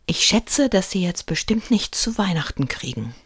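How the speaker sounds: put-on a kid teasing a grown-up; cheeky boy. A narrator's reading. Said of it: "bemerkte Lukas".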